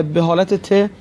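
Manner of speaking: slow, landing on "ت" to make the letter clear; teacher spelling out "ت" slowly; stress on ت. Shown as a demonstration. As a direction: lean on "ت" so students catch the sound.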